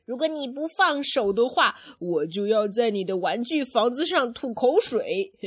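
lightly voiced threatening boy dinosaur; Rex. Parent retelling the brother's threat, lightly acted. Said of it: "就是twins里面那一个男的恐龙，他说".

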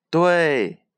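high, loud, glad exclamation; happy agreement. A narrator's reading. Everyone agreeing with the squirrel, joyful shout. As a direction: agree aloud with high delight. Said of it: "大家高兴地".

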